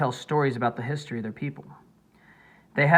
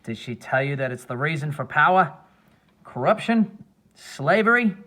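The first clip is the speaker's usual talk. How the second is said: sinister voice; 4 dB louder than usual. A narrator's reading. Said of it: "in a more sinister voice".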